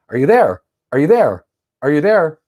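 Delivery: lightly voiced keep-alive pinging harder; insistent calling.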